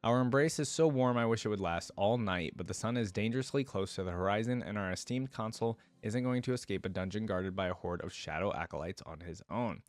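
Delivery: even storybook narration with lightly acted lines; first-person story narration. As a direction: read it as the heroine's own tale. Reads first-person story aloud.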